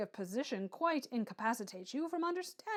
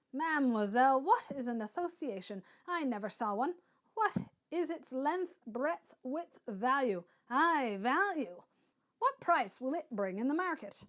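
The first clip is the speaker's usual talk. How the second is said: scornful; 2 semitones higher, 4 dB louder than usual. Acted. Hunsden mocking associations.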